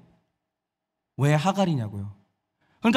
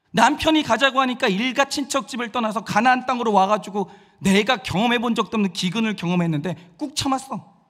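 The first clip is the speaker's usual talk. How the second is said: acted aggrieved rant, often pitched up; self-pitying outburst; 2 semitones higher than usual. Wronged Sarai listing her sacrifices for her husband, self-pitying outburst. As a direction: pour out a wronged wife's mounting grievances. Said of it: "자기 연민이 폭발을 할 거예요".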